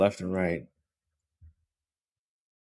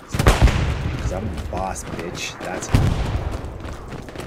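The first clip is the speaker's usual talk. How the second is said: cocky retort; much slower than usual. Retold or imitated. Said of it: "Literally what I said to them".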